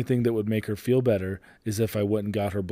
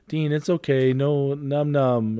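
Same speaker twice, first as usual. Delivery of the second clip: higher, gentle coaxing voice; soothing a toddler; 5 semitones higher, 3 dB louder, slower than usual. Retold or imitated. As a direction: coax a little kid to calm down.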